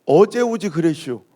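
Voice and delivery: slow Chungcheong 어제 오지 그랬슈 with a dry punchline; deadpan slow Chungcheong dialect; Chungcheong drawl. Retold or imitated. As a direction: drawl it like a laconic Chungcheong sign. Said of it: "딱 한마디로 뭐라고 써요?".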